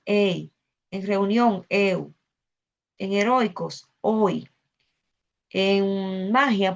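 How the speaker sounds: each example word, then its vowel pair "ay", "au", "ei" sounded out alone as one gliding syllable; diphthong demo. Shown as a demonstration. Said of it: "hay catorce combinaciones que forman diptongo".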